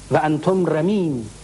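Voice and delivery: "و انتم رمیم" drawn out slowly, the first و stretched long; slow taunting quote. Retold or imitated. Abu Sufyan taunting the martyrs' graves, slow and drawn out. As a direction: spell out "و انتم رمیم" slowly, like a mocking proclamation. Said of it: "ابو سفیان با صدای بلند داد زد".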